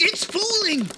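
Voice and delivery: loud high cry of alarm; alarmed shout. Acted. Colonist crying out as the shelter falls, loud alarm. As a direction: shout the warning as it tips. Object collapsing as they watch.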